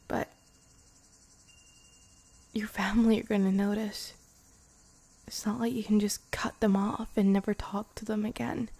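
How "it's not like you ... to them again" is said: tender whispered confession; intimate whisper. Acted. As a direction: confess it in a hushed breath. Whispered worry about family.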